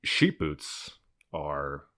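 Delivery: slow, lightly Southern storytelling tone; Southern storyteller. Acted. Son imitating his dad's bedtime story, Southern accent. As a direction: begin a bedtime tale in a Southern drawl. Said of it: "That tone".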